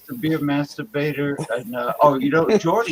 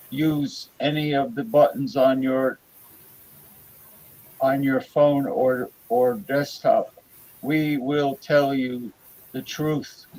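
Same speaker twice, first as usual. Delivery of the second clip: booming alien overlord voice; vast deep cosmic voice. Pretend. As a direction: speak as a godlike overlord. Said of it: "How do I sound now?".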